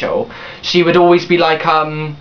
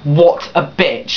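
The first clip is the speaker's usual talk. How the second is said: slow, drawn-out contempt; slow disgusted jab at a former friend; slow scornful; much slower than usual. Retold or imitated. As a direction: drag each word out with scorn. Retold angry reaction.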